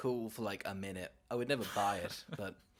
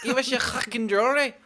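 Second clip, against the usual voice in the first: Cockney burglar shout; 10 semitones higher, 8 dB louder than usual. Retold or imitated. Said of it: "intense Cockney accents".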